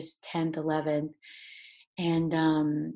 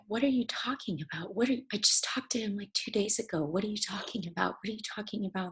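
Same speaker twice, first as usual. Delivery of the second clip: tearful disbelief; 4 semitones higher, 3 dB quieter, faster than usual. Retold or imitated. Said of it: "and I'm like".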